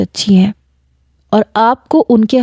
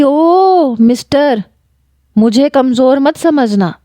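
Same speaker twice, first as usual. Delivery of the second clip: high, drawn-out defiant call; stretched mocking "O mister"; 5 semitones higher, slower than usual. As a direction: hold him off with scorn. Defiant girl to narrator.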